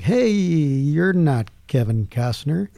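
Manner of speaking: drawn-out "Hey" in mild disbelief; mock fan call. Fans greeting a stranger at the movie field, drawn-out mock call. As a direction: imitate onlookers with a slow, stretched greeting. Fans approach the arriving car.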